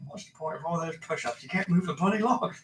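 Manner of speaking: British butler voice through laughter; laughing while doing Alfred; Michael Caine impression, laughing. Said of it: "I can't do Michael Caine".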